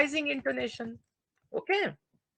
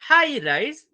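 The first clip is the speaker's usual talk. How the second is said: pitched up high; 5 semitones higher, 4 dB louder, slower than usual. Shown as a demonstration. Student reciting the intonation subtypes, voice high. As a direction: lift the voice high for the high one. Names high rise, voice goes high.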